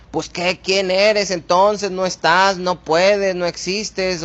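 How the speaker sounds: defiant prayer. Shown as a demonstration. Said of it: "la actitud correcta de no decir".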